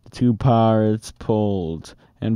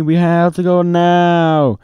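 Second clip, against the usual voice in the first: urgent; 7 semitones higher, 5 dB louder than usual. A narrator's reading. Annie urging from treehouse.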